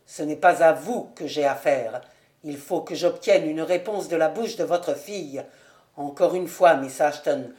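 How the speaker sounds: lightly voiced solemn young nobleman, a little low; restrained, earnest demand of a betrothed; grave wronged suitor. Voices Ravenswood confronting Lucie. (fiancé grave et contenu)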